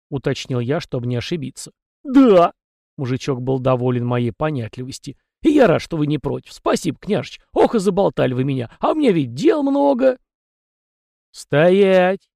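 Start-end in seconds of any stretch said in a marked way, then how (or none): 2.0-2.5 loud high burst of yes; happy shout. A narrator's reading. House spirit shouting yes to the master, loud and pleased. 5.4-10.2 high, folksy little peasant voice; chatty house spirit. A narrator's reading. House spirit Tikhon rambling to the young master, high and folksy. 11.3-12.3 loud sharp order to halt; stern command. A narrator's reading. Young master ordering the house spirit to stop, loud. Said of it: "потребовал я".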